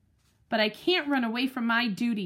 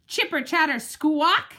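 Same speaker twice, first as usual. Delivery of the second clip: squirrel screech; 3 semitones higher than usual. Acted. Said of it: "he screeches".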